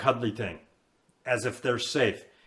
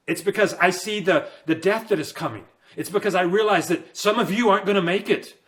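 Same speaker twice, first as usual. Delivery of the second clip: higher, impassioned warning about coming death; fired up preaching; 4 semitones higher than usual. Real, not acted. Preacher to his audience, fired up and urgent. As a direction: pour urgency into every line. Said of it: "if I get fired up".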